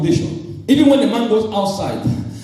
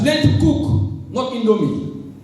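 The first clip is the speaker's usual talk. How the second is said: slow emphatic; 4 semitones higher, slower than usual. Shown as a demonstration. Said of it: "preacher stressing advice".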